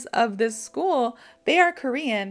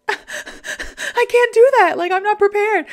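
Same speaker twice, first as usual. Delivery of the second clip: high, loud freak-out; panicked protest; 11 semitones higher, 8 dB louder, slower than usual. Retold or imitated. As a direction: re-enact a panicked refusal, very high. Retold panic at the boss's demand.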